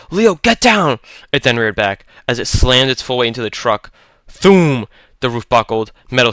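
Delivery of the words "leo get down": very high, loud warning cry; urgent shout. A narrator's reading. Holloway shouting warning to Leo, high urgent cry. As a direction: scream at him to get down. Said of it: "Holloway shouted".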